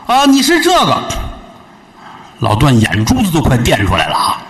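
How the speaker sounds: put-on high, needling young woman's voice; sharp young wife. Wife mocking the visitor in front of her husband, high and sharp.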